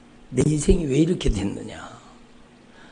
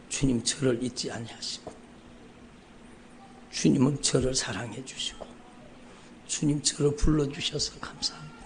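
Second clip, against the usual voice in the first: soft retold prayer; 5 dB quieter than usual. Pastor reenacting his own quiet prayer of return, hushed. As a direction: pray it softly, almost to himself.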